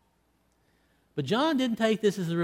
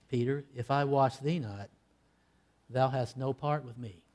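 low, hushed and grave; quiet solemn rebuke; solemn answer; 3 semitones lower, 3 dB quieter than usual. Retold or imitated. Jesus answering Peter's refusal, quiet and solemn. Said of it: "answered back solemnly".

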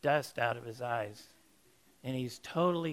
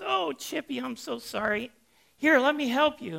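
much higher, fluttery sorry coo; fussing owner; 10 semitones higher, 7 dB louder than usual. Retold or imitated. Owner apologizes to her soaked shivering canary, much higher fussing coo. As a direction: fuss over the wet bird in a high apologetic voice. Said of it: "She goes".

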